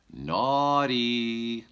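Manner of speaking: put-on high, loud little baby voice; baby bear voice. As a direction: chirp it like a happy toddler.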